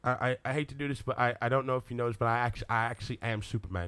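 restrained Englishman pulling rank; Henry Cavill. Acted. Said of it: "You do Henry Cavill".

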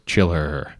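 lightly voiced mummy roar; half-hearted monster roar, drawn out. A narrator's reading. Mummy coming out of the coffin, mildly roared. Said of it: "comes out of the coffin and roars".

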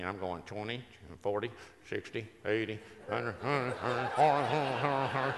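lightly voiced auctioneer calling bids; a hint of an auctioneer rattling off numbers. At the birthday party, mock auctioneer calling bids. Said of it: "I got Floyd Leon in me".

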